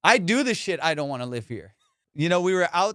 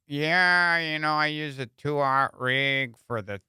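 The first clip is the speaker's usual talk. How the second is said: slow, drawn-out fishing-show host; dull fishing podcaster; much slower than usual. Retold or imitated. Comedian mocking a fishing podcast host, slow and dull. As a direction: stretch every word like a dreary podcaster. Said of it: "it's like fucking watching paint dry".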